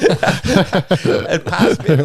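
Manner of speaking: slow, words stretched through laughter; real laughter through the line; laughing. Real, not acted. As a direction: laugh it out as you tell it. Laughing while telling punchline.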